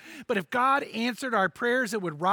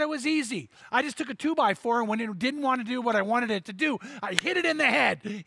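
friend's voice; 3 semitones higher than usual. Retold or imitated. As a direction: play the proud new owner.

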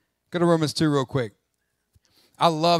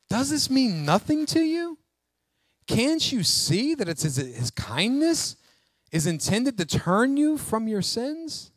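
higher-pitched pleading, without raising the volume; earnest appeal; 7 semitones higher than usual. Acted. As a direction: gently implore them to understand. Pleading with congregation about God's kindness.

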